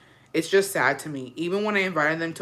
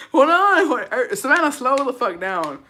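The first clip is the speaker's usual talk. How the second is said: struggling through laughter; 8 semitones higher, 6 dB louder than usual. Real, not acted. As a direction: gasp out the words, then rein yourself in. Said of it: "the reason I'm laughing".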